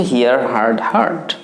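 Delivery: "হার্ড" with an open ah, like card; no ee glide in "হার্ড"; correct pronunciation. Shown as a demonstration. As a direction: model "হিয়ার" then "হার্ড" for learners. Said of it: "তাহলে উচ্চারণ হচ্ছে".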